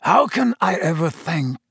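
tearful, breaking thanks; choked up. Acted. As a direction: voice catching with gratitude. Sirius's emotional gratitude.

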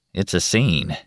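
muttered sideways out of the mouth; out of the side of mouth. Acted. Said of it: "he said out of the side of his mouth".

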